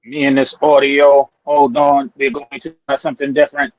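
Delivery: choppy breaking-up call audio; underwater. Real, not acted. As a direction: voice cutting in and out on the line. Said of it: "Sound like you're underwater".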